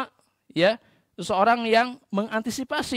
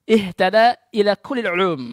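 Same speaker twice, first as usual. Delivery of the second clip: louder, ringing recitation of the Arabic maxim; 7 dB louder than usual. Retold or imitated. Preacher quoting Imam Syafi'i to students, loud declaiming. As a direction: proclaim it like a quoted scholar's saying. Quoted saying, first take.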